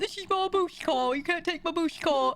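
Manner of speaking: hammy, over-the-top British accent, pitched high. Showing how they would read a British character in an audiobook: not a normal British accent. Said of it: "I would have to resist doing that".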